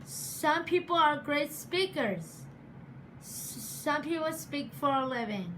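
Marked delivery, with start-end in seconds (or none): 3.2-5.5 stuttering. Real, not acted. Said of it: "but I stutter".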